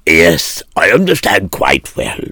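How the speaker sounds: firm, measured refusal; calm but unbending creditor; stern creditor. Acted.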